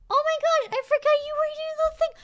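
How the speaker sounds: high, loud squeal of delight; gushing excitement. Real, not acted. Owner to her dressed-up dog, high excited gushing. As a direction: burst out gushing in a high pitch.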